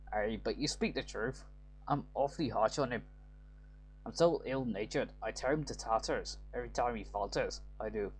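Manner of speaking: light Scottish-Irish lilt, read like a game line; a hint of a Scottish brogue, half Irish; Scottish accent. Father voicing his harsh streak to the lad, light Scottish accent. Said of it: "doing a Scottish accent or an Irish".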